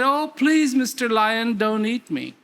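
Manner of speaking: a scared little cub pleading for its life; frightened pleading cub. Acted. Lion cub begging the big lion, frightened plea. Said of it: "And he said".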